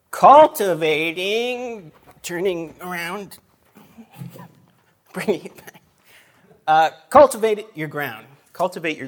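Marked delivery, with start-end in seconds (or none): 0.1-5.8 drawn out very slowly, the first word louder; dramatic title reveal. Shown as a demonstration. 7.1-8.2 much louder, the word cultivate punched; emphatic title. Shown as a demonstration.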